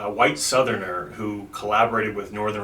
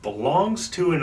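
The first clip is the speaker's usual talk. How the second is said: reading a letter aloud; 7 semitones higher than usual. Retold or imitated.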